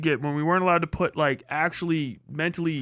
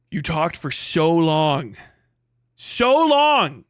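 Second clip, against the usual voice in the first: exasperated; 3 dB louder, much slower than usual. Real, not acted.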